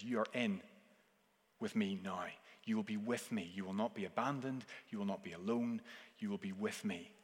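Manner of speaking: Jesus tenderly reassuring the criminal, soft. Acted. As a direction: comfort a dying man quietly.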